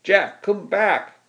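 high, stretched-out distant call; screamed plea. A narrator's reading. Brother calling Jack back from behind, screaming. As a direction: holler slowly for him to return. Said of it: "screamed Kelly".

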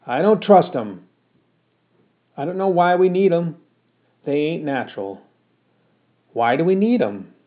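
put-on fed-up mother berating her boy; cross scolding mother. Ma scolds son.

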